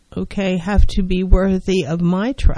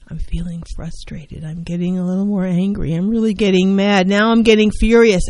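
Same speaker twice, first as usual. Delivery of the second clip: volume building to furious. Shown as a demonstration. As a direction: turn the volume up from frustrated to furious. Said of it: "it's like volume, you know, like volume".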